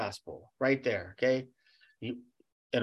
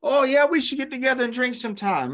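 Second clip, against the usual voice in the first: bright high mock greeting from an old drinking buddy; mock friend inviting a believer to drink, higher and fast; old party friend; 10 semitones higher than usual. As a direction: play the cheerful old friend, voice pitched up. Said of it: "You're like".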